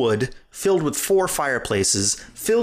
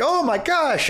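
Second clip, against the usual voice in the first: high-pitched mock panic; "oh my gosh" in a hammed-up panic; mock freak-out; 13 semitones higher than usual. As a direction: imitate game characters flipping out. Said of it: "They're flipping out".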